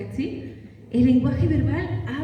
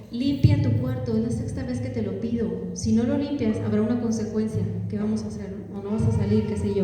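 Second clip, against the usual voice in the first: calm firm request. Shown as a demonstration. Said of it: "No es lo mismo que yo le diga".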